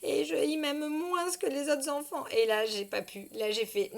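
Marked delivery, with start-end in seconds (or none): 0.0-2.3 lightly voiced tearful little girl, soft and a bit higher; a hint of a sobbing child confessing; daughter in tears. Mother retelling her daughter breaking into tears, softly tearful. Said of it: "elle s'effondre en larmes".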